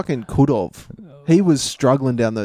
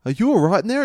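calling out; 7 semitones higher, faster than usual. Retold or imitated. Mate calling through bathroom door.

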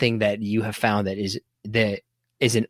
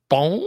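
imitated bong; 5 semitones higher than usual. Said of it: "it's like a".

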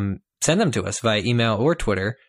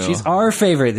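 our said higher and louder; stress on our; 6 semitones higher, 4 dB louder than usual. Real, not acted. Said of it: "is what I said".

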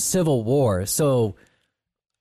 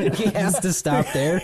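laughing; 4 semitones higher, slower than usual. Real, not acted. Joking about push-up counts.

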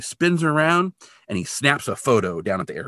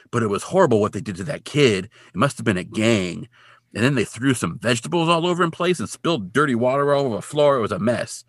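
put-on funny-talking old guy; 3 semitones higher than usual. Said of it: "the guy talks funny".

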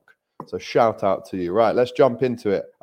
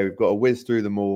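normal talking voice

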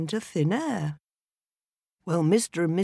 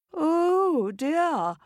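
wife cries out; 12 semitones higher, 3 dB louder than usual. A narrator's reading. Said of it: "cried Missus Smith".

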